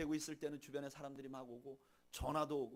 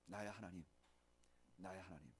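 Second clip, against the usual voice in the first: anguished cry; 6 semitones lower, 11 dB quieter than usual. Retold or imitated. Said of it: "하늘을 향해서 이렇게 부르짖습니다".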